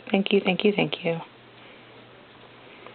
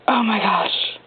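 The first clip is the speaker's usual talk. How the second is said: awed whisper; 3 semitones higher, slower than usual. Real, not acted. Gasps over unboxed album.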